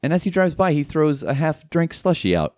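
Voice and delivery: usual speaking voice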